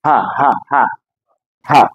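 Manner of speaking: "Ha" with a light, open breathy h; easy "ha", plain air from the throat; relaxed Arabic hāʾ "Ha"; normal ha. Shown as a demonstration. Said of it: "it is a normal ha".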